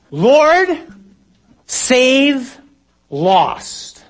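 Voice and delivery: high, loud cry over a storm, word by word; screamed plea. Shown as a demonstration. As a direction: scream each word separately, dropping off on the last. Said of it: "you have to scream it".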